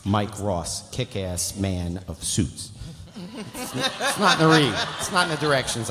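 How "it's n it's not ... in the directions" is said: high, laughing admission; real laughing. Real, not acted. Reader confessing to improvised stage directions, laughing. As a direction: talk through your laughter.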